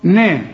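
نا thin and fronted, toward "nae"; light n. Shown as a demonstration. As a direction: demonstrate a light نا. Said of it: "كل نون في القرآن مرققة". (نون مرققة في نا)

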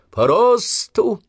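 very slow, high, loud drawn-out order; shouted command. Acted. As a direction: stretch the order across the parade ground. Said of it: "скомандовал Обух".

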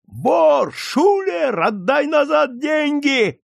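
high, loud cries of outrage; furious crowd yelling, pitch soaring; accusing shouts. A narrator's reading. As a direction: yell it at a caught cheat. Crowd accuses a card cheat.

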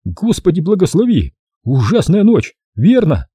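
high, lisping whistle; lisping whistling voice. Acted. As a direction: whistle the words with a lisp. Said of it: "Он говорил шепеляво, почти свистящим голосом".

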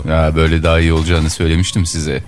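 dropping voice deep. Acted. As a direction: push the voice down deep. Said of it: "sesini kalınlaştırmana gerek yok".

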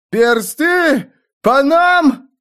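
high panicked cry; yell of pain and outrage. A narrator's reading. A wagon driver shrieking as fire rains down, pained yell. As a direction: scream it as if hit and betrayed. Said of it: "заорал с болью и обидой".

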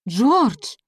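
a shocked rebuke at his rudeness; shocked exclamation. A narrator's reading. Билли, потрясённая грубостью Джорджа, восклицает громко. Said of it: "воскликнула Билли".

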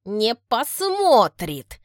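slow, pressed jealous answer; through gritted teeth. Acted. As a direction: grind each word out slowly. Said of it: "цедит Кристина Ивановна".

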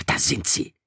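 tense whisper. A narrator's reading. Ralph whispering as he spots the procession. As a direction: hiss it out on sighting them. Spotting the hunters.

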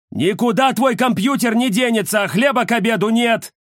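высоко и громко, отчитывая; строгий дед ставит на место; сердитый дедушка. Acted. Дед спорит с внуком. (дедушка громко отчитывает внука)

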